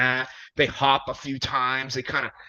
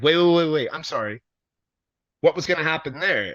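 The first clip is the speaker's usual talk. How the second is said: alarmed; 3 semitones higher, 6 dB louder than usual. Retold or imitated. PR person alarmed by match plan.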